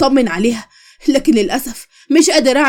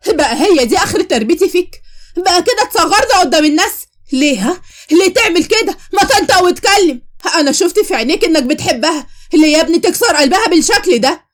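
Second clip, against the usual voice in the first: higher, raised scolding from a hurt mother; furious mother scolding; 5 semitones higher than usual. Acted. Mother to her son after slapping him, furious scolding. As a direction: shame him for humiliating the family.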